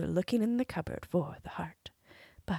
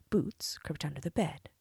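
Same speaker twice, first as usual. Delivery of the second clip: ordinary delivery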